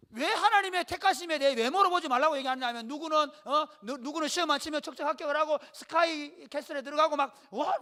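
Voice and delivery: ordinary talk, nothing marked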